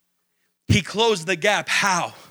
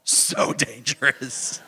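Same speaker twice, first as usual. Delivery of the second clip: laughing; 7 semitones lower, 3 dB quieter, slower than usual. Real, not acted. Laughing at bubble ball.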